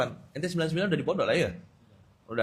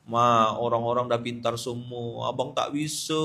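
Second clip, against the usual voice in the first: slow, mildly woeful complaint; dramatised pleading; 4 semitones lower, 4 dB quieter than usual. Acted. Son phoning mama to come home, slow mock-pitiful plea. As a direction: plead slowly, lightly hamming up the misery. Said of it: "Saya mendramatisir ceritanya supaya bisa balik".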